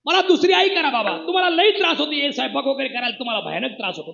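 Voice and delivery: put-on a boy calling loudly, begging his father; loud child's plea. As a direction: plead loudly, like a small son. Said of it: "बापाला मोठ्याने म्हणलं". (मोठ्याने केलेली मुलाची विनवणी)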